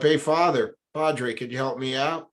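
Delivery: pleading holler from below; yelling up for help. Retold or imitated. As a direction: call up to the priest from the hole. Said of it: "he yells up".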